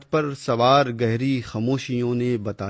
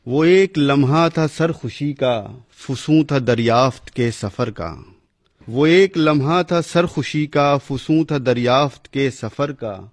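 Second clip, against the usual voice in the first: measured, declaiming verse recital; poem recitation. Acted. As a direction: recite like a poet at a gathering.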